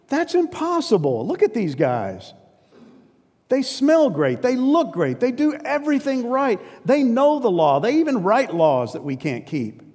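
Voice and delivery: high, exasperated protest, up by a lot; exasperated listener. Retold or imitated. A Jew in the crowd objecting to Jesus, high, exasperated and disbelieving. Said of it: "get in the mind of the Jews sitting there going".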